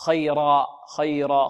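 "خيرا" ending in long aa, no n; alif at pause. Shown as a demonstration. Teacher illustrates tanween at a stop, "خيرا" ending in long aa. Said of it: "يقلب ألفا".

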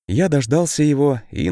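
usual speaking voice

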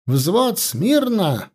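high, crisp parade-ground command; smart shout. A narrator's reading. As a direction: bark the order like a keen officer. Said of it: "молодцевато ... выкрикнул Копорский". (молодцеватый выкрик команды)

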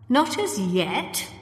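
slow dry sarcasm; sarcastic. A narrator's reading. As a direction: draw it out mockingly. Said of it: "the doctor sounded sarcastic".

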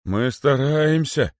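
high, drawn-out protest; straining guards. A narrator's reading. Guards answer the python while dragging Kosoy, straining. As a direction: answer high and slow, with effort. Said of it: "отвечали стражники".

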